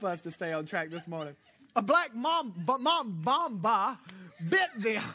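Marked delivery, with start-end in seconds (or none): 1.8-5.2 louder, raised, fighting off laughter; laughing through words. Real, not acted. Pastor retrying the word mamba while still laughing. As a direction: try to say it straight while still giggling. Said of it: "that is funny".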